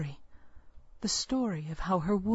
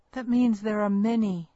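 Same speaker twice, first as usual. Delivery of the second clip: a sharper, louder warning; angry; 2 semitones higher, 5 dB louder than usual. Acted. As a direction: midwife scolds the girl, angry. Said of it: "she said angrily".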